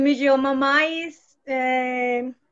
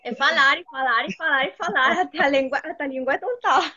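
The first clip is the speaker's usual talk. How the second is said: laughing through it, a bit louder; 3 dB louder than usual. Real, not acted. Learner laughs while telling the host to just keep talking. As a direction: let the laugh spill into the words.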